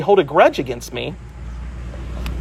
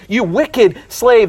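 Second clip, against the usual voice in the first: stern slow rebuke; 4 semitones higher, slower than usual. Acted. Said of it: "the king says".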